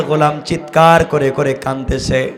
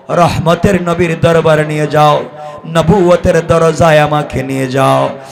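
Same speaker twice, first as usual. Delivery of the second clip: normal talking voice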